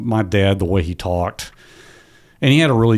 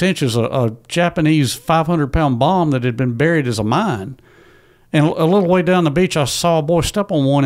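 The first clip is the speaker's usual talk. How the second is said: son voicing his father's memory in a raised voice; quoting his dad; 7 semitones higher than usual. Son quoting father's account of the beach landing, higher voice. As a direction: retell Dad's words higher, as he told them. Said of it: "That is me quoting him directly".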